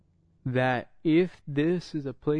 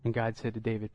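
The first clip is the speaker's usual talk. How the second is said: ordinary talk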